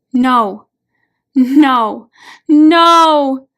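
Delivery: desperate screams building to the top of the lungs; screaming no. A narrator's reading. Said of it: "She is screaming at the top of her lungs".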